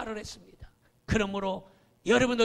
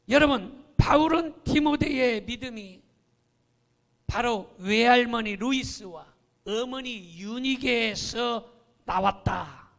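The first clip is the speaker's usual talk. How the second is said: ordinary talk, nothing marked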